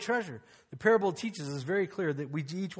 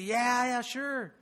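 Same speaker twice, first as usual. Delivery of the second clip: easy agreement; 5 semitones higher, much slower than usual. Retold or imitated. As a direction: agree readily in a lifted voice. Imitates himself agreeing to everyone.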